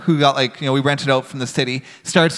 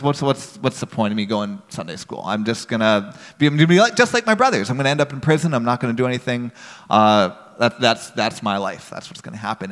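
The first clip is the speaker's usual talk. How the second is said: understated dejection, trailing lower; sensitive, opening up; 4 semitones lower than usual. Retold or imitated. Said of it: "show that sensitive side".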